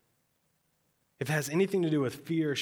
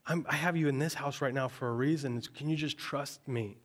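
God's gentle plea. Acted. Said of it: "And God's saying".

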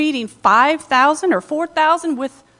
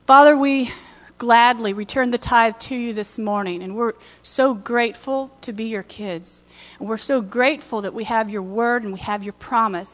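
prayer. Acted. Prayer over tithe.

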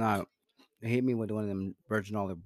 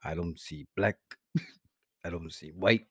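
lightly put-on Italian wiseguy; deadpan mob boss musing; mock mobster accent; 5 dB louder than usual. Mobster character answering about colorblindness. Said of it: "Yo, your accent just".

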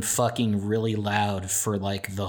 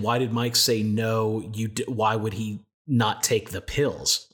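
plain; slower than usual. Retold or imitated. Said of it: "I thought you were saying".

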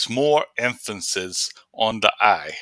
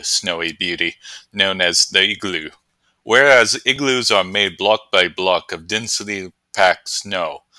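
lightly voiced field reporter; 2 semitones lower than usual. Reporter in the snowy wilderness, lightly chirpy. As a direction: report from the snow like a TV correspondent. Correspondent character segment.

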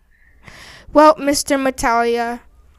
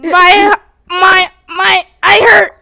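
pained cry; 5 semitones higher, 4 dB louder, slower than usual. Acted. Hurt after shark scene.

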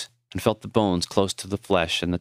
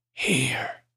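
weak whisper; 4 semitones higher, 3 dB quieter than usual. Acted. Dying man guides hands.

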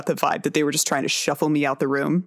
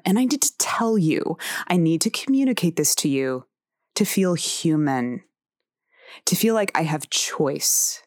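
fiery. Retold or imitated. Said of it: "bring that fire to the fear".

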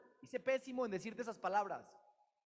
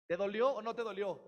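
louder, pressing question; insistent challenge; 3 semitones higher, 8 dB louder than usual. Acted. Preacher confronting the listener, loud insistent challenge. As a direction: press them hard for an answer.

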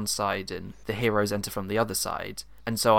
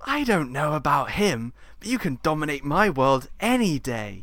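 flirty pantomime dame; 5 semitones higher than usual. Acted. Plays flirty Mother Jamalio.

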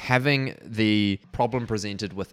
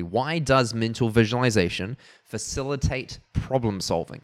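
slower, deliberate title reading; 2 semitones higher, 3 dB louder than usual. Shown as a demonstration. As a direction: read the title out slowly and carefully. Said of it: "I'll say that slower".

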